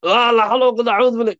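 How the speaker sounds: high, fast mock-resigned la hawla; mock-resigned Arabic phrase; resigned sigh of dhikr.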